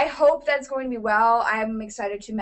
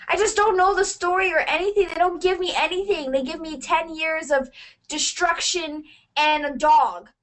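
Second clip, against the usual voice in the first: higher-pitched exasperated rant; getting angry; 4 semitones higher than usual. Real, not acted. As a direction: vent your frustration, half in fun. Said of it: "I'm getting so angry".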